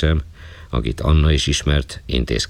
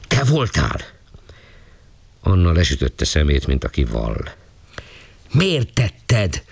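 shouting policeman; 3 semitones higher than usual. Acted. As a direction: hurl the accusation at the girl. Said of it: "ordított rá a rendőr".

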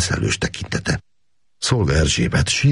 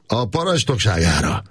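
high, ironic raised-glass toast; mocking toast; 8 semitones higher than usual. Gábor toasting Káptalan's command, ironic toast. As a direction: toast him with a sneer.

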